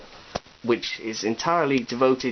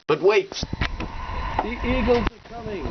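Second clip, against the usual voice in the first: excited announcement; 10 semitones higher than usual. Pretend. Narrating toy rescue.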